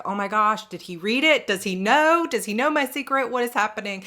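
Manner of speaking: high, loud rising panic; frantic alarm at being found out; panicked. Retold or imitated. Panicking in front of her husband, frantic and loud. Panicked inner thoughts retold.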